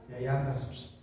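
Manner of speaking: ordinary talk, nothing marked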